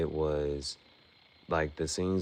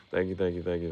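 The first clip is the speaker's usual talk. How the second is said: laughing thanks; faster than usual. Real, not acted.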